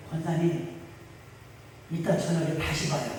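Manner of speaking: 낮고 작게 힘없이; 지쳐서 슬쩍 피하듯 낮게; 지친 목사님. Retold or imitated. (지친 목사님이 권사님을 달래 보내며 낮고 작게)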